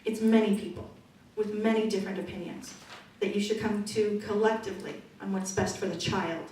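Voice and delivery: usual speaking voice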